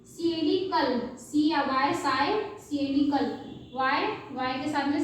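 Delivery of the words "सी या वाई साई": drawn out letter by letter; slow spelled-out demo. Shown as a demonstration. Teacher to students, spelling slowly.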